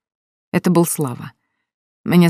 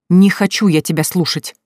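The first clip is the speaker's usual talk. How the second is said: yelling; 3 semitones higher, 4 dB louder than usual. Acted. Lilya refusing to hear Slava on the phone, a mild acted yell. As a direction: cut him off with raised voice. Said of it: "я орала так громко".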